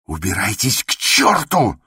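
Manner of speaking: high, wailing outburst; anguished, sobbing anger; tearful cry. A narrator's reading. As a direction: cry out near tears. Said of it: "крикнул он плачущим голосом".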